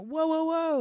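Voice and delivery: loud, high startled yell; yelled whoa. Retold or imitated. Bartender yelling across the bar to stop a customer. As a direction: bark it out to stop the slur. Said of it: "I turned around and yelled".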